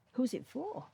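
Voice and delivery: high, hollow repeat of the question; boggart's haunted second asking; eerie boggart echo. Acted. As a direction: let it drift up thin and ghostly. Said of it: "asked the boggart".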